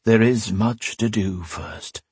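slow, lightly voiced old priest; calm, measured counsel.

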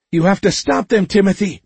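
high, urgent shout; loud, desperate command. A narrator's reading. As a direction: call it out urgently, pitched high. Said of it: "Magnolia shouted".

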